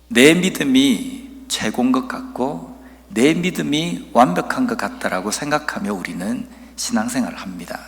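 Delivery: ordinary delivery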